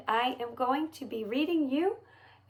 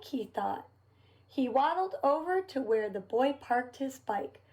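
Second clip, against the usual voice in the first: put-on lively storybook reading for little kids; reading to children. A narrator's reading. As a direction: read it like a picture book for children. Reads picture book to children.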